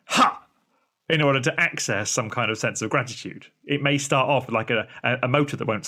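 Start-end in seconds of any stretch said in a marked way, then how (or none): 0.1-0.4 forced ha. Retold or imitated. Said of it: "need to be going".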